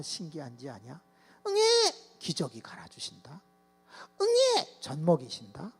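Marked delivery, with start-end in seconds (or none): 1.5-1.6 put-on baby cry. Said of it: "응애 우는 거밖에 없어". 4.2-4.8 put-on baby cry. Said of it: "응애 우는 거밖에 없어".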